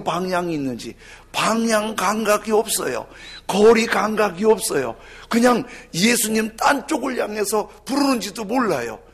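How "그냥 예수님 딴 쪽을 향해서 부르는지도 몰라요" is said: ordinary talk, nothing marked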